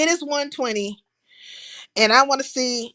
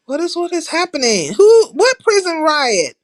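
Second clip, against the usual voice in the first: surprised question; 6 semitones higher, 4 dB louder than usual. Real, not acted. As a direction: stretch it out, startled. Reacting to chat news.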